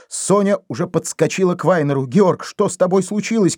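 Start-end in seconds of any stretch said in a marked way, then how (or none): 2.1-3.6 high startled call; испуганный крик; frightened cry. A narrator's reading. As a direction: cry out in fear for him. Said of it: "крикнула она в испуге".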